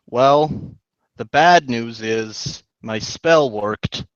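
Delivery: deadpan. Acted. Character breaks bad news.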